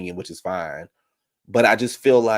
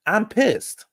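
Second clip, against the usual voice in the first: much higher-pitched imitation of an angry confessional; mock pissed-off outburst; 13 semitones higher, 4 dB louder than usual. Host mimicking her confessional, mock pissed off. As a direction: squeal it in mock anger.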